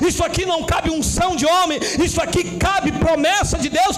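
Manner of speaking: insistent, rising sermon litany; fervent preaching. Real, not acted. Preacher exalts God's promise over man's, fervent preaching. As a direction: hammer each repeated phrase, building.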